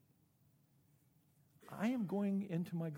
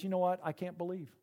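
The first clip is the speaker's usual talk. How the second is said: doubting Thomas insisting; 7 semitones higher, 14 dB louder than usual. Retold or imitated. Thomas tells the disciples he needs proof, loud and insistent. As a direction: hammer out each condition like a stubborn doubter. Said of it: "Thomas says".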